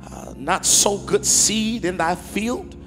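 measured, emphatic pulpit reading with long pauses; scripture reading. Acted. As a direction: read scripture aloud, stretching the key words. Reads scripture to congregation.

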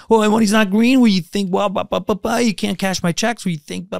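hot-tempered ranter. Retold or imitated. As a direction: mimic his hothead rant. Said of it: "He's got a temper".

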